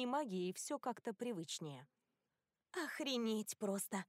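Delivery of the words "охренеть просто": slow, grumbled under breath; grumbling. Acted. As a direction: grumble it out, fed up. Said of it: "буркнула Кори". (буркнув)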